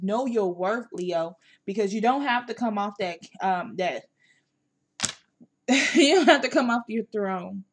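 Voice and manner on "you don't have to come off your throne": laughing. Real, not acted. Laughing repeat of advice.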